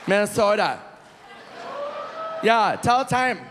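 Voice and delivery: hammed-up righteous telling-off; mock scolding. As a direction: berate them over simple manners. Mock-scolds Minnesota woman to be polite.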